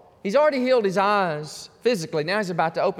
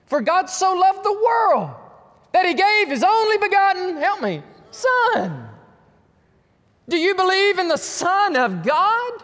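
a raised, ringing scripture quote; loud preaching quote; 14 semitones higher, 7 dB louder than usual. Retold or imitated. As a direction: declare the verse at full force. Preacher quoting scripture to Muslim.

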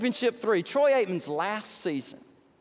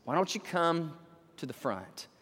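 altar call; 6 semitones lower than usual. Real, not acted. Preacher's lowered invitation.

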